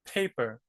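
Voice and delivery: paper with a breathy puff on the P; aspirated English P. Shown as a demonstration. Teacher contrasts English paper again. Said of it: "Big difference, right?".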